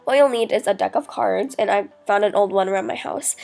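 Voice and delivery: blocked nose from a cold; sick, stuffy voice. Real, not acted. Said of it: "sorry about my voice, I'm really sick right now, so if it sounds stuffy".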